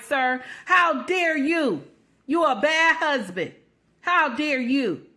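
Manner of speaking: sarcastic scolding of the husband, building up; mock outrage. Mocking critics, scolding a good husband in sarcastic outrage. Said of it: "You see how stupid that sound?".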